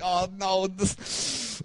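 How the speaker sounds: whispered, dropping to nothing; dread whisper. Retold or imitated. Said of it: "I'm like".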